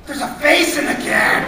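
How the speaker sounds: put-on high, loud, slow kid voice with a nervous laugh; a frightened little boy spotting something awful; scared kid. Kid telling the father what's in the can, high and scared.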